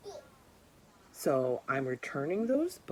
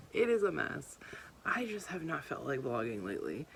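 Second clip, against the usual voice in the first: whisper; 2 semitones lower than usual. Real, not acted. Confiding morning vlog aside.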